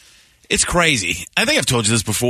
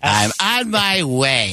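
Lovitz impression; much slower than usual. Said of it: "Why do you guys always do that?".

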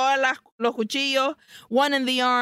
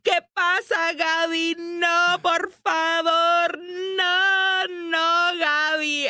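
high, panicky imitation; mock freaking out; 7 semitones higher, slower than usual. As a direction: act out her panic, pitched way up. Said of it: "where she is freaking out".

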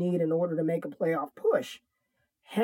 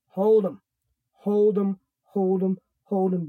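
emphatic loud command; 4 dB louder than usual. Real, not acted. Hammering advice, repeated.

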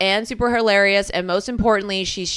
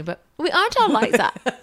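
higher, laughing defensive whine; mock protest, laughing; 5 semitones higher than usual. Host imitating co-host defending Germans, laughing mock whine. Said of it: "And then you".

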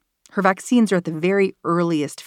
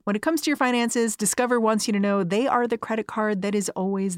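slightly softer, upbeat sponsor read; podcast ad read; 2 semitones higher, 5 dB quieter than usual. Acted. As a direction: read the sponsor copy to the listener. Host reads sponsor ad.

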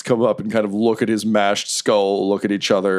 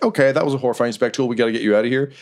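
quick, hushing-along handler; brisk, rushed escort; hurried; 3 semitones higher, much faster than usual. Acted. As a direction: rattle it off while hustling someone out. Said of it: "kind of quickly".

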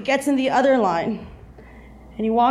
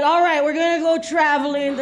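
higher-pitched put-on Jewish accent; 4 semitones higher than usual. Boyfriend planning the trip, in a mock Jewish accent. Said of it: "That's my Jewish accent".

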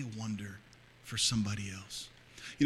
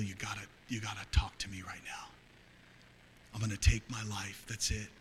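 hushed, broken plea to God; man praying in despair, hushed; desperate whispered prayer; 3 semitones lower, 6 dB quieter than usual. Retold or imitated. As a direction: whisper it as if alone at night. Quoting his despairing suicidal prayer.

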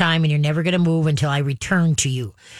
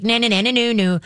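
higher-pitched excited dog babble; mock racing dog; 5 semitones higher than usual. Trainer mimics dog racing past, mock-excited, higher.

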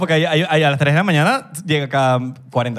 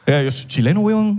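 put-on Chilean accent; 3 semitones higher than usual. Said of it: "Quiere imitar un acento".

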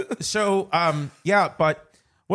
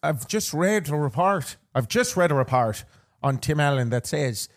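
hammed-up Irish lilt; put-on Irish accent; 3 semitones lower than usual. Podcast host reporting gossip to co-host, mock Irish accent.

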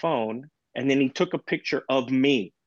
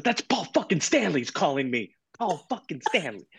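higher-pitched, mildly hyped disbelief; starstruck retelling; 5 semitones higher than usual. Retold or imitated. Dad tells daughter that a rock star is calling, starstruck. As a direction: retell it as a wowed fan.

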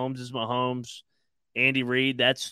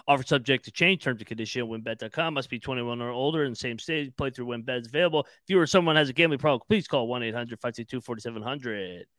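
fast legal disclaimer. Acted. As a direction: rattle off the small print. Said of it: "no more ad reads".

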